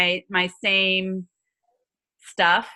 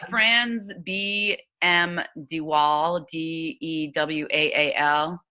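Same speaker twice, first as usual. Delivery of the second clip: dictating; 3 semitones lower, much slower than usual. Real, not acted. Spelling out author's name.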